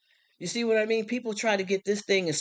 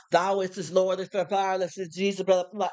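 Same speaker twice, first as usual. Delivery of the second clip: imitating pious King James speak; mock churchy talk; 3 semitones higher than usual. Host mocking how church folk expect her to talk, mock pious. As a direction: parody holy talk, running into blah-blah. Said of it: "have to talk like that".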